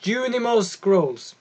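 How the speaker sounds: wizard voice. Acted. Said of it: "I'm gonna try to not talk like him again".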